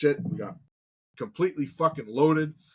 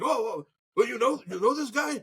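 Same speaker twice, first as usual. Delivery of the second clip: higher, caught-off-guard voice; higher flustered question; startled backpedal; 8 semitones higher than usual. Retold or imitated. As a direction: sound suddenly unsure of yourself. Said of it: "the guy's like".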